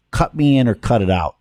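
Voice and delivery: a light Chicago accent on a favorite saying; mild Chicago iron worker twang, just a hint. Shown as a demonstration. Host shows his Chicago accent to the guest, lightly. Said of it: "my favorite thing to say with my Chicago accent".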